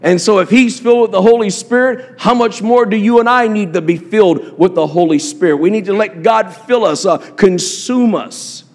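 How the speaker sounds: normal talking voice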